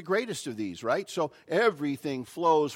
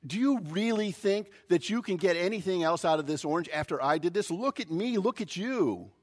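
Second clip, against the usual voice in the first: higher-pitched, mock-disbelieving challenge; incredulous challenge; 4 semitones higher than usual. Strongman doubting the little lady who stepped up, incredulous challenge. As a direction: size up a hopeless challenger in disbelief.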